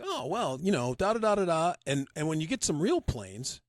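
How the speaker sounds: salesman voice. Retold or imitated. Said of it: "And the guy's like".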